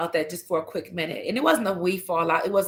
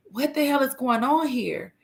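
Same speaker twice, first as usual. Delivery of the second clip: higher-pitched baffled question; mock exasperated puzzlement; retold bewilderment; 6 semitones higher than usual. Mother sees kids acting out, retold bewilderment.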